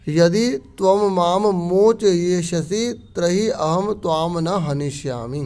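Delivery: very slow, word by word reading; Sanskrit recitation. Shown as a demonstration. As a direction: spell the verse out for the students. Teacher reads Sanskrit text aloud.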